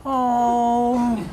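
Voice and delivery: high mock aww at a puppy; lightly voiced tender aww; women cooing at puppy. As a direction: coo like you just saw a puppy. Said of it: "that wouldn't go".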